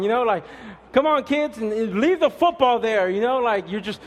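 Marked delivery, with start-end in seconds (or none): 0.9-3.1 higher, louder rushed yell; mock yell at wife. Pastor imitating a husband yelling at his wife, loud mock yell. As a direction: bark it at your wife to hurry. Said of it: "yelling at your wife to hurry up".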